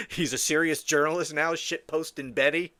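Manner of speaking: laughing through the words, sarcastic; derisive laughter. Real, not acted. Host mocking a podcaster posing as journalist, laughing derisively. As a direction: scoff and chuckle at the idea.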